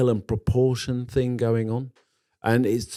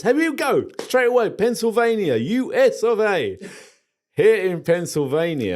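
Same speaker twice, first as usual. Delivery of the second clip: high, bright-toned American announcer; American accent; 8 semitones higher than usual. Pretend. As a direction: put on a big American accent. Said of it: "Are you gonna do it in an American accent?".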